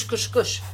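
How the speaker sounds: playful squish sound effect. Shown as a demonstration. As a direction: voice the squeeze noise for fun. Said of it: "Sound effects required".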